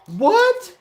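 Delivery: sudden high, loud startled shout; a real jolt of surprise at the sighting; surprised. Real, not acted. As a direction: yelp it out in disbelief. Surprise at player appearing.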